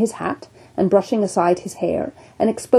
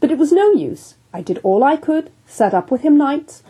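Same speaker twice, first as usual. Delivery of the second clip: earnest surgeon; 4 semitones higher than usual. Acted. Surgeon tells of the wound.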